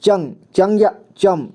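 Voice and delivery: चंग, चंग या चम read out slowly, one syllable at a time; teacher reading syllables aloud slowly; slow reading drill. Shown as a demonstration. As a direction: pace each syllable out for the class. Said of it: "इसे पढ़ते हैं".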